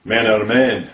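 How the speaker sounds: hard-man Glasgow accent; Glaswegian accent. Shown as a demonstration. Presenter shows off hard Glasgow men, Glaswegian accent. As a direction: put on a tough Glaswegian. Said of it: "The most distinctive of all would be Glaswegian".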